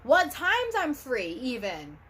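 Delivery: firmly telling them off, voice up high; real frustrated scolding. Real, not acted. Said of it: "I'm just fired up".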